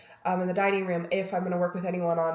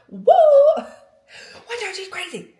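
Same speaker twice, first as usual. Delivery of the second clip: high, loud jokey warning call; mock announcer; 13 dB louder, much slower than usual. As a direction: warn everyone she's lost it, laughing. Mock warning about herself.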